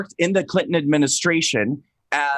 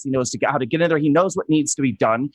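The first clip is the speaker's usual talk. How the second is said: ordinary delivery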